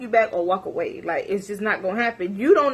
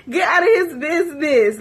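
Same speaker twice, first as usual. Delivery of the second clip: laughing through the words; 5 semitones higher, 3 dB louder than usual. Real, not acted. Telling herself off while laughing, laughing. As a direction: still cracking up. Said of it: "I was dying laughing".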